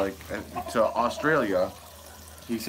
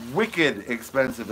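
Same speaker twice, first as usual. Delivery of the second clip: put-on Boston accent; 4 dB louder, slower than usual. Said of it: "as they'd say in Boston".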